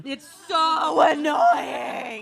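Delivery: mock exasperated. Real, not acted. Teasing friend about always right.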